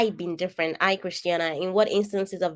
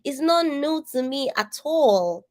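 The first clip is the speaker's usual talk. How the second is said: retorting; 7 semitones higher than usual. Retold or imitated. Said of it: "And I'm like".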